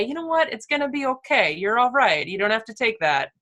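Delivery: gentle, comforting a younger self; reassuring. Pretend. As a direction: soothe a scared little kid. Comforting her bullied child self.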